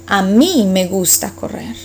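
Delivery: "mí" pushed up for emphasis; stress on mí. Shown as a demonstration. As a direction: lean on "mí", it's about me. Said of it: "really emphasize that you're talking about yourself".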